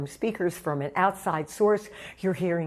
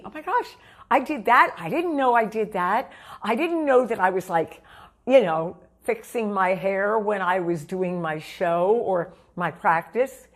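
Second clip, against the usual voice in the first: surprised self-discovery. Retold or imitated. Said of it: "and see".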